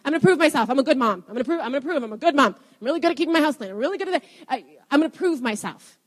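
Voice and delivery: insistent self-talk, tumbling over itself; lightly acted, striving inner monologue; anxious inward voice. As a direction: act out a need to prove yourself. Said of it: "an inward voice that we feel like we have to prove ourselves".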